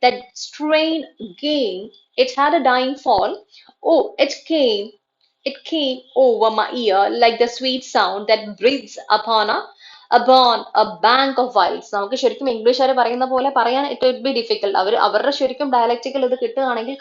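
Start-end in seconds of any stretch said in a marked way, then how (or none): 0.0-11.9 slow verse, "strain" and "gain" stressed and stretched; weighty beats on "strain" and "gain", pausing between phrases; iambic stress. Shown as a demonstration. Teacher reading Twelfth Night to show the meter, stress on "gain". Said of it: "A, gain is stressed".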